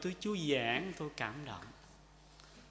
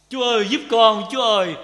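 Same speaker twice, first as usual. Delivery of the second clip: loud prayer; 7 semitones higher, 15 dB louder than usual. Shown as a demonstration. Prayer cry for help.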